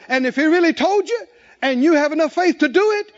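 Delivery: fiery preaching. Acted. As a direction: drive the congregation to act. Preaching at full force.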